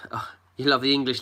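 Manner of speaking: breathy sigh into a whisper; a sighing whispered aside to herself. Real, not acted. Whispering aside to her viewers.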